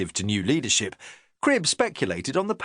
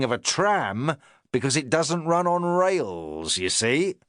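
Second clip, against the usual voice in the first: a touch of a self-important inspector; the inspector talking down to his sergeant, lightly pompous; 3 semitones higher than usual. Acted. Inspector pleased with his analogy.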